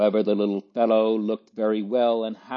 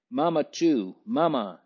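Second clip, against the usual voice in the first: a higher, pleading insistence on Mamma; insisting; 5 semitones higher than usual. A narrator's reading. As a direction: keep pressing, asking for Mamma. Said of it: "insisted Louis".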